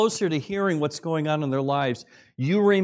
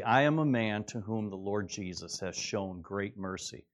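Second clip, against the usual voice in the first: quiet sincere testimony; 6 semitones lower, 6 dB quieter than usual. Shown as a demonstration. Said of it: "I'll say".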